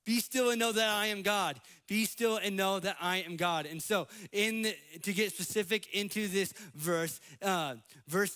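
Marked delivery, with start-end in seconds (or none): 0.0-3.7 God's wake-up call. Acted. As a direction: deliver "Be still and know that I am God" as a firm divine rebuke. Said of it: "God basically slapping the people of Israel".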